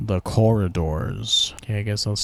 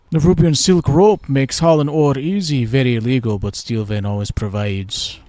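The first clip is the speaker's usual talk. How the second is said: put-on accent, higher; lightly accented miner's voice, pitched up; NPC accent; 4 semitones higher, 5 dB louder than usual. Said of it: "I don't have that accent".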